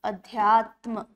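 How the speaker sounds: अध्यात्म said slowly, syllable by syllable; slow dictation. Shown as a demonstration. Teacher spells the word out for students, slowly. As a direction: stretch अध्यात्म while writing it. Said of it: "एक होता है शब्द अध्यात्म".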